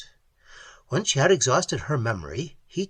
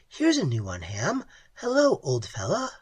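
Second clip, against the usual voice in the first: Pat's voice; 2 semitones higher than usual. Acted. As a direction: greet the creature like a dog. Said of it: "she said".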